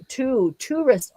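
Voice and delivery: "tourist" said as TOO-rist, like "zoo"; "tourist" with a long oo, as in zoo; Australian pronunciation. Shown as a demonstration. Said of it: "as in zoo".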